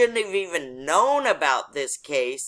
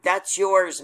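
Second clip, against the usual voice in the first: imitated cop's shout, louder; retold yell back; 3 semitones higher, 5 dB louder than usual. Cop answering the driver about the ticket, imitated yell. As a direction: call it back like the cop yelling. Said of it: "you'll hear him yell back".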